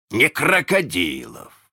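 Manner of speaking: «крокодилов» stretched out slowly in correction; correcting. A narrator's reading. Hook corrects his bosun, stretching «крокодилов». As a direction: draw out «крокодилов» as the wrong word. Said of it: "поправил его Крюк".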